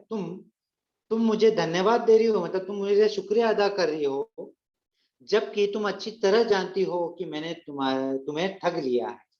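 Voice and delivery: lightly acted angry employer, pressing the point; mock indignant scolding of the maid; mild angry master. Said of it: "गुस्से में आवाज कांपने लगती है".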